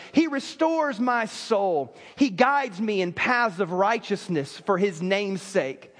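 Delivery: slow, measured Psalm reading; scripture reading. Acted. Preacher reading Psalm 23 aloud, slow reverent reading. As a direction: read it slowly and reverently to the congregation.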